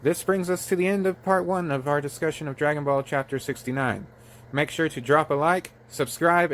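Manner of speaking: lively announcer-style subscribe plug; video sign-off. Acted. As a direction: wrap up the episode like a channel host. Reads the channel sign-off.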